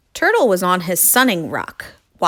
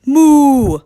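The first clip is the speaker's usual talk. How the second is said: high, loud, long moo; crying out a moo; 7 semitones higher, 9 dB louder than usual. Acted. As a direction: cry it out with neck stretched. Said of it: "stretched her neck and cried".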